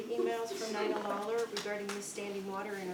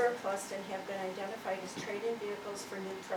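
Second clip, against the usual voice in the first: speaking louder; 4 dB louder than usual. Real, not acted. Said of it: "Can you speak louder".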